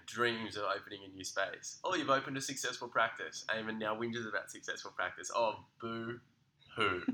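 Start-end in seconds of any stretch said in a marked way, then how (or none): 5.4-7.0 slow drawn-out mocking boo-hoo. Host mocking his guest's whinging with a slow boo-hoo. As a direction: stretch it out, taunting.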